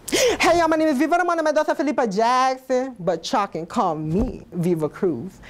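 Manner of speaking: perky character host, lightly put on; a bright emcee greeting the crowd, hammed up; lightly voiced perky festival host; Viva Cruz host voice. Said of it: "welcome to our festival by Leon K".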